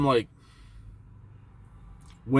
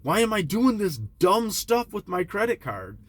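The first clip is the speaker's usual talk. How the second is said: frustrated self-questioning; 8 semitones higher than usual. Retold or imitated. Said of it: "You know? ... it's like".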